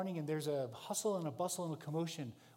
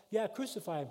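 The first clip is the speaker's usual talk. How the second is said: loud, higher mob shout; joining the shout; 6 semitones higher, 5 dB louder than usual. Retold or imitated. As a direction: shout along with the crowd. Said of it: "you begin to shout like everyone else".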